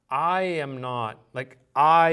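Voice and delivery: "I" drawn out slowly and leaned on; contrastive stress on I. Shown as a demonstration. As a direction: set "I" apart in slow contrast. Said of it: "the feel that you're getting".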